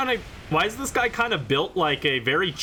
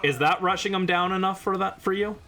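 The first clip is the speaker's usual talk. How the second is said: mock shout; 6 semitones higher than usual. Real, not acted. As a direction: yell it at the slowpoke. Mocking a slow teammate.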